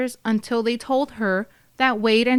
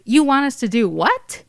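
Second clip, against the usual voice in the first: high, louder shocked question, leaping on the last word; incredulous; 4 semitones higher, 5 dB louder than usual. A narrator's reading. Officer answering the order to arrest Erin, incredulous. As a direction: act out an officer's disbelief. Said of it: "Booth asks".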